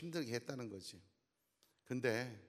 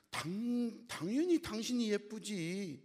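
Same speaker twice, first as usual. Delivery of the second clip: sweet husband; 8 semitones higher, slower than usual. Retold or imitated. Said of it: "남편이".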